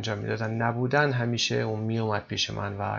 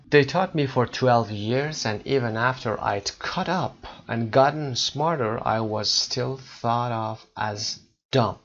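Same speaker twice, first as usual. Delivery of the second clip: slow, careful reading-aloud of the English passage; slow text reading; much slower than usual. Acted. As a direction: read each phrase slowly and clearly for learners.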